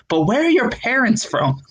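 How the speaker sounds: high-pitched disbelieving questioner; probing girl. Retold or imitated. Comedian imitating the girl who keeps asking, high-pitched doubt. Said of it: "she was like".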